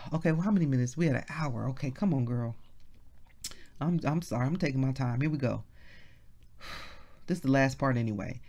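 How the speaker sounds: low, soft self-talk; quiet aside. Real, not acted. Preacher apologizing for taking time, quiet low aside. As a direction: drop the voice well down, off the pulpit.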